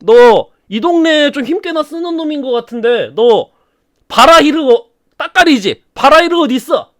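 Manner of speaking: dark lord taunting a prisoner, sneering; menacing Sauron. Acted. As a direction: lean in and interrogate the captive. Sauron interrogates Gorlim.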